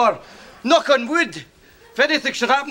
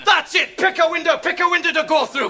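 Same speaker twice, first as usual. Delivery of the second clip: raised-pitch fighting challenge; angry threat; 3 semitones higher, faster than usual. Acted. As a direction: square up for a brawl. Father threatens son in quarrel.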